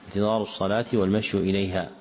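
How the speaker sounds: والمشي said "wal-mashyu"; final damma. Shown as a demonstration. Teacher rereading the corrected phrase, والمشي with a final "u". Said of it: "والصواب".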